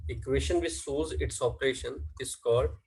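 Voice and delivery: each word drawn out for notes; teacher reading a definition aloud slowly; slow dictation. Shown as a demonstration. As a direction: dictate the definition at writing speed. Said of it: "dictating definition slowly".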